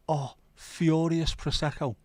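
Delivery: high, slow announcer-style name call; wrestler name. Acted. Inventing a masked wrestler name, high slow announcer call. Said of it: "That is gonna be my name".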